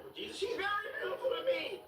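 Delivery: mock sincere. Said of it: "I'm like".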